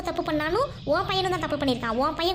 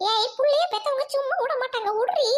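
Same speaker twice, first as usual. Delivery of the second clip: angry shout; 6 semitones higher than usual. Acted. Women quarrel over dragged girl.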